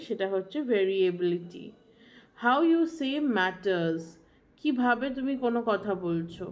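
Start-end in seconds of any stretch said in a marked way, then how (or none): 2.4-4.0 slow maxim. Shown as a demonstration. Teacher stating a key maxim.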